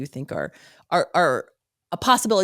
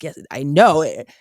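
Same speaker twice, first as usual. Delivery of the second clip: slow, firm, louder insistence; emphatic certainty; 5 dB louder, slower than usual. Retold or imitated. Demanding that a fact is true, emphatic and slow. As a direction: insist you know it for sure.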